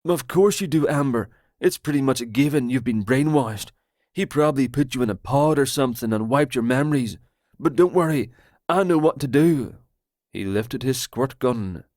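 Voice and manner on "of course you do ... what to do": paranoid Roger. Acted. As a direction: blurt it out like a betrayed friend.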